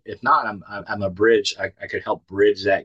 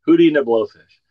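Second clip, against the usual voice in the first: higher and louder, thrilled to name the band; excited announcement; 6 semitones higher, 7 dB louder than usual. Retold or imitated. Telling his sponsee who is playing, excited and loud. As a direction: blurt the band name with delight.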